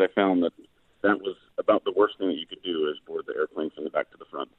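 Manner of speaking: faint, fading phone line; crackly cordless phone. Real, not acted. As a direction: voice dropping out on the phone. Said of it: "you're fading in and out".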